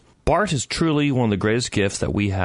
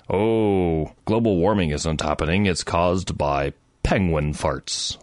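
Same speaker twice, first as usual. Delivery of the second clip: lightly voiced denier, drawn-out and low; a hint of a dim denier, mocking; mock climate denier; 5 semitones lower, slower than usual. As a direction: parody a dismissive oil-company mouthpiece, slowly. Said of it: "the ones that say".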